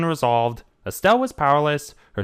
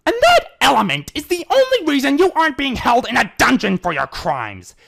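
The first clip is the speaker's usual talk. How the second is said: high, loud cutting reply; retort; 12 semitones higher, 4 dB louder than usual. Acted. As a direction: snap back coldly. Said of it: "he retorted".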